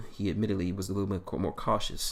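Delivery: plain reading voice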